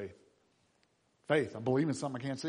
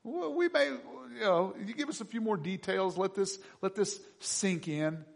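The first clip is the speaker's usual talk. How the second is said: much higher, hesitant and open; a listener leaning in, intrigued; curious listener; 9 semitones higher, 3 dB louder than usual. Retold or imitated. Athenians answering Paul, high and hesitantly curious. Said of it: "some are like".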